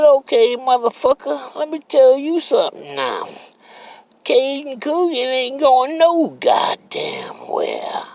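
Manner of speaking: high, loud, furious comeback; defiant yelling. Retold or imitated. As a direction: shout him down, refusing to budge. Defying the angry old man.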